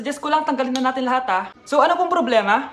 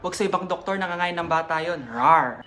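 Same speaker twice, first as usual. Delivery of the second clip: monster voice; 10 semitones lower, 3 dB quieter than usual. Acted. Doctor scares a child.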